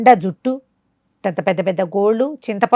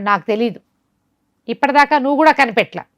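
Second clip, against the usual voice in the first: pleading demon; 5 semitones higher than usual. Acted. Beaten demon pleads ignorance.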